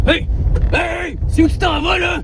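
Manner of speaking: high, loud holler; shouting after someone. Acted. Passenger halts grandpa going astray, shouting. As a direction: shout to stop them walking off.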